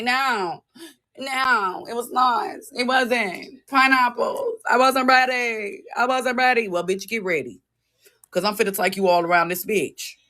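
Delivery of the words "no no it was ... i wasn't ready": mock flustered denial. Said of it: "wanna say".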